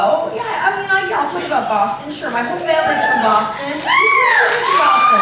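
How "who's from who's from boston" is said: 高声向观众喊问; 拔高嗓门问全场谁来自波士顿; high called-out question. Real, not acted. Calls out to audience.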